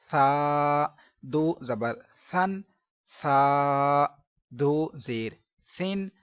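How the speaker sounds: slow drill, सा without a hiss; no whistle on saa. Shown as a demonstration. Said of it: "सा सीटी की आवाज़ नहीं आए".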